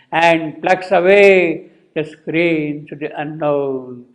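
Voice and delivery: sustained verse reading, opening strong and settling; poetry recitation. Acted. Teacher reading the next verse to students, solemn poetry recitation. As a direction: recite with stretched vowels and weighty pauses.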